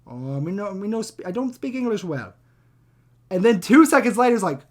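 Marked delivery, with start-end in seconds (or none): 0.1-2.3 Retold or imitated.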